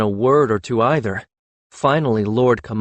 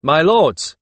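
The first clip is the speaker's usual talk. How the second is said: carefully enunciated; 5 semitones higher, 5 dB louder than usual. Acted. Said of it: "enunciating each word with such care".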